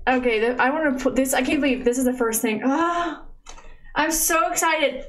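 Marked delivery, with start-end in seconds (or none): 2.6-5.0 high, slow squeal of real delight; squealing excitement. Real, not acted. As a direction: let the joy burst out high.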